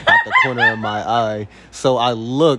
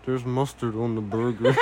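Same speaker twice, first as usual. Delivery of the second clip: mouth full, quiet; 7 dB quieter than usual. Retold or imitated. Girlfriend muttering about the mustard, quiet and stunned. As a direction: say it softly with a mouthful. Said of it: "She was like".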